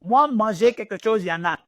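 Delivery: a hint of dad's pidgin French; father's broken French. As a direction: imitate father's simple French. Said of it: "And my father French".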